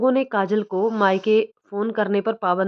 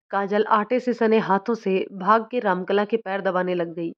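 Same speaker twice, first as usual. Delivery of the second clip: plain reading voice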